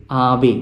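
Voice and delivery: "Ave" as AH-vay; stress on first syllable. Shown as a demonstration. Teacher showing where the accent is, "Ave" stressed AH-vay. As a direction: lean on the A of "Ave", let the end fall. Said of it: "it has got the accent".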